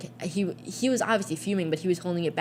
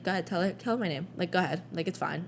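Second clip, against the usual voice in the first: resigned; 5 dB quieter, faster than usual. Retold or imitated. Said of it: "he was like".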